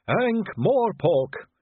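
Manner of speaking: long, high dreamy "Ankh-Morpork!"; swooning sisters. A narrator's reading. Sisters sigh "Ankh-Morpork!" slowly, high and dreamy. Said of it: "threefold sigh".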